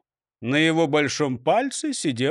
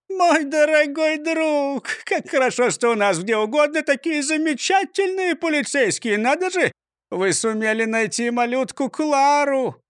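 delighted mayor; 8 semitones higher than usual. A narrator's reading. Mayor gushing with joy.

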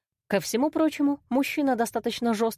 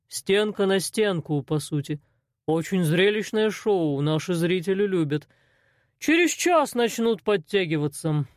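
slow, unhurried menacing boss; lightly voiced cold boss; calm crime boss; slower than usual. A narrator's reading. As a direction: explain the fights like it's business. Arsen voiced by narrator.

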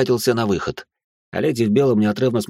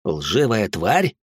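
возмущённое недоумение; much slower than usual. Acted.

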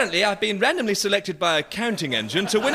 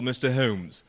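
put-on German accent; 6 semitones lower than usual. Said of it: "picked up a little German".

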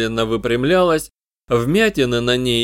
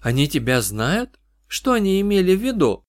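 trembling, high questions; shaky voice; 6 semitones higher than usual. Acted. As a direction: ask with a trembling voice. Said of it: "её голос дрожал".

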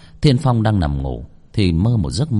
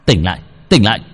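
urgent shout; 5 dB louder, faster than usual. A narrator's reading. Punching possessed friend awake.

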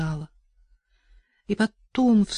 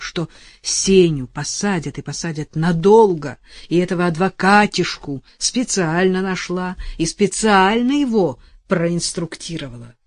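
impotent fury. Acted. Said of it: "думала в бессильной злобе".

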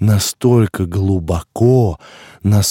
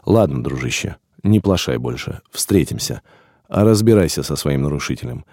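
softer gentle farewell; kind and friendly; 6 semitones lower, 3 dB quieter than usual. A narrator's reading. Keeper says goodbye kindly to his friend, soft and friendly. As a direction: speak kindly to an old friend. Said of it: "сказал это ласково, дружелюбно".

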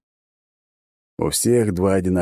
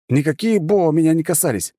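higher, mock yell of a confused man; yelling back; 9 semitones higher than usual. The hero yelling back at the girl, confused yell. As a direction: shout back in bewilderment. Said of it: "заорал я в ответ".

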